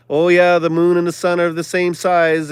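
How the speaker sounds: a touch of a smug actor, loud on oh yeah; mock Tom Hanks. Mimicking Tom Hanks brushing off viewers, smug. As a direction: lightly mimic a smug, scoffing tone. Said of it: "I'm kinda mocking and scoffing you".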